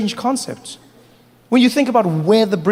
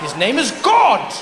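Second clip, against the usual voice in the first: pompous; 3 semitones higher than usual. Acted. British officer.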